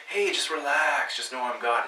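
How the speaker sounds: slow, breezy, laid-back; casual easy. Shown as a demonstration. Preacher showing the wrong casual reading, breezy. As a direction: toss it off like no big deal. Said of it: "The intonation here isn't like".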